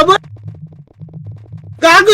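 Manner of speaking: ordinary talk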